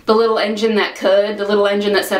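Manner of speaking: ordinary talk, nothing marked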